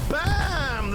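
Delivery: loud, high "Bam!" on the hit; excited shout. Real, not acted. Caster yells as Schnitzel's rocket hits the tank. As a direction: burst out as the rocket lands.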